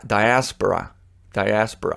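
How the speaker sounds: diaspora with the stress on the second syllable, die-ASS-pura; correct pronunciation. Shown as a demonstration. Host recalling he mispronounced a word, careful correct pronunciation. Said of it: "I think I mispronounced the word".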